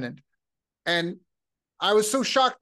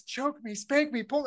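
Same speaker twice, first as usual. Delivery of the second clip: higher imitating a girl singer's voice; 7 semitones higher than usual. Retelling a Japanese radio song in a higher girl voice. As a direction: lightly mimic a girl on the radio. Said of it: "and then this girl voice".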